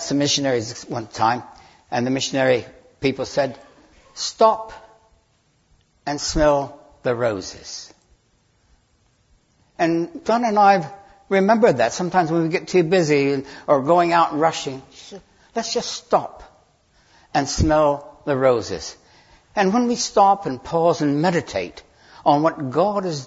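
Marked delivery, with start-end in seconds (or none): 4.1-7.9 slow, with a long pause after "Stop"; unhurried quoted advice. Retold or imitated. Missionaries advising a busy couple, slow and unhurried. 15.5-19.0 slow down after "stop", leaving space; unhurried self-reminder. Retold or imitated. Couple too busy and rushing remind themselves, slow and unhurried. Halting the rush, as advised.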